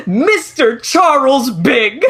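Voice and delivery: lightly mocked scolding wife. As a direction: stretch out the full name like a telling-off. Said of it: "what if she calls him by his full name".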